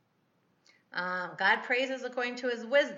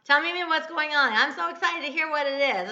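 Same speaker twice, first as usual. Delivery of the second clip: louder, eager retold coaxing; excited for her; 5 semitones higher, 6 dB louder than usual. Grandma urging her little granddaughter to explain, retold excitement. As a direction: encourage a small child with mild excitement. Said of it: "I'm all excited for her".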